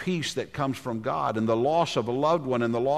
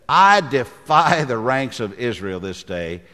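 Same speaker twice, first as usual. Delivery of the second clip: Philistine's challenge; 7 dB louder than usual. Acted. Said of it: "And the Philistine said".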